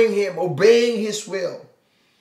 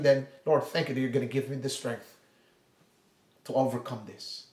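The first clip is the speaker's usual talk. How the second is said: gentle prayer; 3 semitones lower than usual. Pretend. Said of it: "maybe you are in need".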